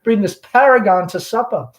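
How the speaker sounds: lightly voiced chatty Southern belle mother; Southern mother hostess. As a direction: gush over the guest like a fading belle. Amanda hosting the gentleman caller.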